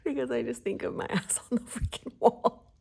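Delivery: laughing through the words, pitch up; can't hold in the giggles; giggling. Real, not acted. Vlogger picturing herself on the wall, giggling.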